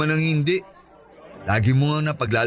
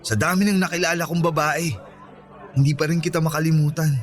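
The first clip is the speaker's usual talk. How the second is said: sincere confession; 3 semitones lower than usual. Acted. Ronnie confessing his long love to Andrea, sincere and tender. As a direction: lay his heart bare, gently and seriously.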